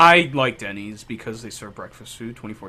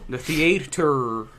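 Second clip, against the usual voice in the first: put-on Canadian accent; slower than usual. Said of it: "I was trying to do a Canadian accent".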